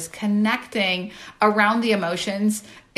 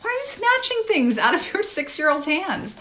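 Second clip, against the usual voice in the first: self-scolding; 4 semitones higher than usual. Retold or imitated. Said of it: "And I thought".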